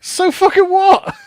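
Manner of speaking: high, slow mock defiance; defiant outburst. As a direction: throw it out like a cartoon villain.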